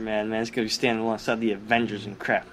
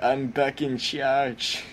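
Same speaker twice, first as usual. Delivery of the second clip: mock Red Skull; 2 semitones higher, much slower than usual. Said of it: "Red Skull comes back and kills him".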